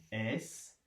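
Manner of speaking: "Escalier" softly cut as es, ca, lier; split into syllables. Shown as a demonstration. Teacher cutting up the word for pupils, "Escalier" in spaced syllables. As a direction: say "Escalier" softly with long gaps between es, ca and lier. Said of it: "Alors on découpe".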